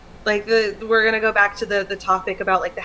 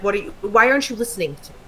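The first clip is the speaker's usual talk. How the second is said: rushed irritation; 3 dB louder, much faster than usual. Retold or imitated. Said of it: "my first reaction is to get mad".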